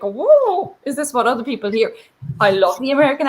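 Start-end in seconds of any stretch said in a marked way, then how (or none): 0.0-1.9 startled at her own voice; mock surprise. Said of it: "caused me to sort of, like".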